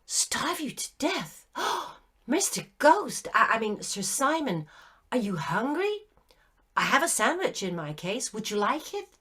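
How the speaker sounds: put-on gasping, high girl's voice, concerned; a shocked child offering her sandwich; startled young girl. A narrator's reading.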